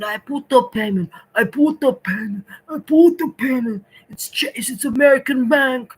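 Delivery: retold exasperated protest rising to a shout; frustrated insistence. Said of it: "And I said".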